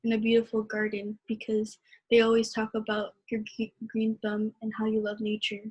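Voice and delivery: measured, heartfelt poem reading; poem recitation. Acted. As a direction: read it like a spoken-word poem. Poetry reading at open mic.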